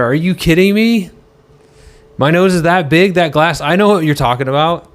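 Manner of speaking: mock outrage. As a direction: play the insulted diva, over the top. Mock outrage at nose joke.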